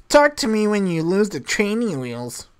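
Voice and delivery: a touch of lofty put-down; superior. Acted. Sam coaching Fergus on a snooty brush-off, lightly superior. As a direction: brush him off from above, lightly. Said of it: "just act all superior and say".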